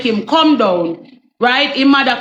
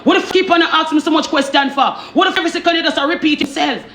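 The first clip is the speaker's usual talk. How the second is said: put-on Jamaican accent; 5 semitones higher, faster than usual. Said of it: "the man turn Jamaican".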